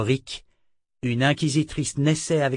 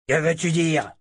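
thug asking; 5 semitones higher than usual. Acted. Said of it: "lança un des hommes".

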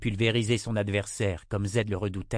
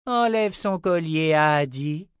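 slow, loud, raised command; menacing order; 7 semitones higher, 6 dB louder than usual. Acted. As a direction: order a captive, drawing it out. Armed woman orders her captive.

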